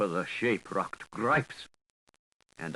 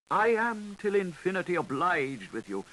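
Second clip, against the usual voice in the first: higher, humble and fawning; bow and scrape with the voice; an obsequious little thank-you; bowing Gripes; 8 semitones higher than usual. A narrator's reading. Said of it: "bowed the Gripes".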